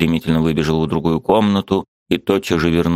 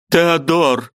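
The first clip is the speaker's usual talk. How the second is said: высокий умоляющий женский голос; позови его с мольбой; жена зовёт; 11 semitones higher than usual. A narrator's reading. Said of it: "продолжала она". (высокий умоляющий зов)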